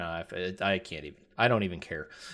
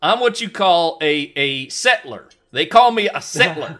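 loud, raised mock-Canadian protest; Canadian accent; 6 semitones higher, 7 dB louder than usual. Podcaster defending a bad impression as a Canadian, Canadian accent. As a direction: put on a hammed-up Canadian accent. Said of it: "I'm a Canadian".

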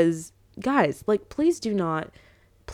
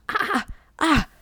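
high, speechless "ah"; exasperated wordless outburst, pitched up; speechless groan; 7 semitones higher than usual. Real, not acted. Venting to viewers how she feels, speechless. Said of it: "that's how I feel".

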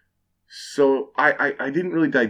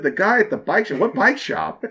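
rising, baffled question; puzzled echo; 7 semitones higher than usual. Retold or imitated. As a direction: echo it back, confused. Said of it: "I was like".

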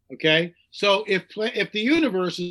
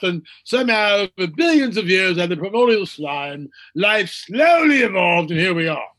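mock scientist lecture; 3 dB louder than usual. Mocking scientists' account.

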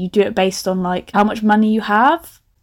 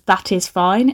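"That is fine" said in full, a touch prim and careful; lightly posh; 2 semitones lower, slower than usual. Shown as a demonstration. Mocking how her teen self wrote posh mum talk, mildly prim. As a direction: give "That is" both words, mildly posh. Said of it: "all I've done to make them posh is to avoid abbreviations".

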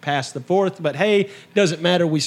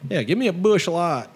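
lightly put-on hillbilly voice; hillbilly talk; 2 semitones higher than usual. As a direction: ask for a beer like a redneck. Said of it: "That's my hillbilly talk".

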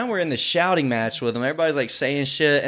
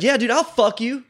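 higher cocky threat; mock tough reply; 8 semitones higher than usual. Retelling his threat to the stranger, higher cocky tone. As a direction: toss the threat back casually.

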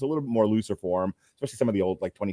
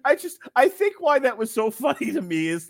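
normal talking voice

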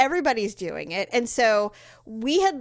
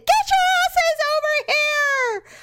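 much higher, louder, slow exasperated command; mock angry order; 6 dB louder, slower than usual. Mother ordering lost kids over. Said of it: "And I said".

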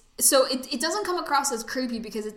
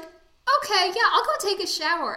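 airy mock compliance; 8 semitones higher, 5 dB louder than usual. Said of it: "And she's like".

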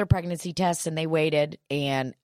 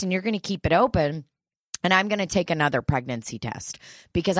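fast demanding; faster than usual. Retold or imitated. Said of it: "I got so furious on the phone".

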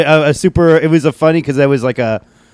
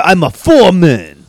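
put-on shouted Asian accent; 5 semitones higher, 4 dB louder than usual. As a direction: yell it in a broad Asian accent. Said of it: "doing a really thick Asian accent".

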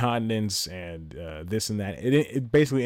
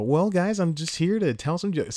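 put-on high, innocent little-boy pitch; voice up an octave; 8 semitones higher than usual. Comic introducing his set to the crowd, voice raised high. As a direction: pipe it up high, all wholesome. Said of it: "my voice goes up in an octave".

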